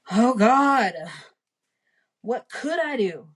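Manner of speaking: frantic cry. A narrator's reading. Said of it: "I foamed, I raved".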